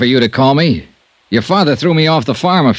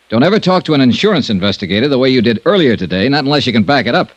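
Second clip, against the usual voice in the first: grim. Acted. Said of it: "you sound grim".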